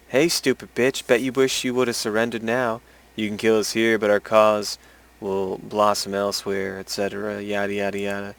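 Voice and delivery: dismissive read of a villain's last words, trailing off; mocking taunt. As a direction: brush off the enemy's speech with a yada yada. Mocks enemy's dying taunt.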